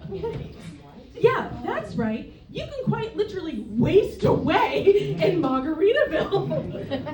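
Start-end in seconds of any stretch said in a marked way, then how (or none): 1.2-7.1 slow punchline. Real, not acted. Punchline delivered slowly.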